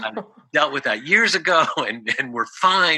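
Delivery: put-on angry voice. Retelling what a client said when asked about her mother: imitating an angry voice. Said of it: "she said in a angry voice".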